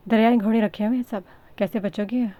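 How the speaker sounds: comic alarmed shout; loud outcry. A narrator's reading. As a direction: bellow it in mock panic. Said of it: "वरदान की दहाई पर".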